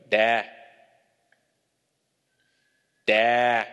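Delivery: lightly voiced toddler calling out; screaming toddler. Father mimics his son calling from the crib, toddler yell. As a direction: imitate a small child calling for a parent. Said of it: "this is how he'll do it".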